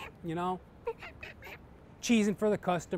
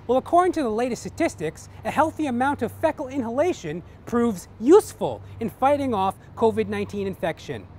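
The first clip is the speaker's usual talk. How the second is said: higher prim nurse, explaining primly; a lightly raised voice for a know-it-all nurse; 4 semitones higher, 5 dB louder than usual. Acted. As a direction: nurse answers the patient matter-of-factly.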